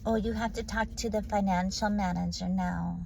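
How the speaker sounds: imitating a syrupy Verizon support agent; mock customer service voice. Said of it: "When you hear those voices".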